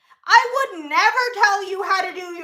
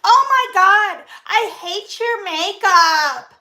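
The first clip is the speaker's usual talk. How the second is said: mock hater; slower than usual. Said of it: "You don't have to tell me".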